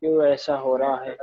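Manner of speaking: choppy, cutting-out audio; robotic broken call voice; glitchy robotic call. Real, not acted. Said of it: "वो कट कट के आ रही sir.". (कट-कट कर आती आवाज़)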